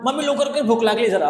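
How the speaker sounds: put-on hungry child rushing mummy, impatient; impatient hungry demand. Shown as a demonstration. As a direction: demand food now, irritated. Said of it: "असं म्हणणार".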